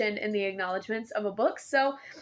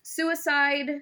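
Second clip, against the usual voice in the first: ordinary talk, nothing marked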